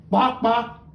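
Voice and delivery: chicken clucks. Retold or imitated. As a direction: cluck like a hen. Chicken imitation.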